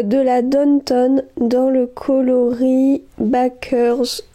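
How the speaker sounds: noms anglais lus lentement avec un accent français; détache Downton et Baker's Cornet lentement, accent français marqué; accent anglais hésitant. Real, not acted. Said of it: "mon accent". (prononcer lentement des noms anglais avec un accent français)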